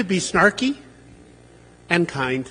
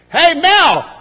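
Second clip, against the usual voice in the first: high, loud call across the house; calling the dog; 12 semitones higher, 9 dB louder than usual. Retold or imitated. Leslie calling her dog from the dinner table, loud and high. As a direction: sing out his name to find him. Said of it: "she goes".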